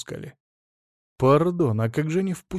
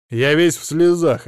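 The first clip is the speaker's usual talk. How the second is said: staccato; 3 semitones higher, 7 dB louder than usual. A narrator's reading. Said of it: "отчеканил он".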